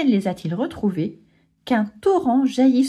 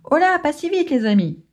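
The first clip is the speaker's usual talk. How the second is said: Timon calming crowd; 6 semitones higher than usual. Acted. Timon calming impatient animals.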